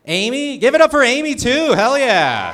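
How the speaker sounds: rally the crowd for Amy; hype shout. Real, not acted. Comic rallying the crowd to cheer for Amy, high loud shout.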